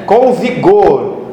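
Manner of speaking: "vigor" drawn out slowly with weight; with vigour. Shown as a demonstration. Preacher showing how to read the word, slow vigorous stress on "vigor". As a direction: stretch "vigor" out firmly. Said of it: "lê com vigor a palavra".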